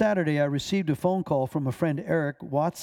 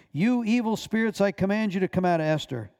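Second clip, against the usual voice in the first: raised, higher-pitched commanding voice; loud command; 5 semitones higher than usual. Retold or imitated. Pastor commanding the evil spirits to leave, loud. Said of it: "he said in a loud voice".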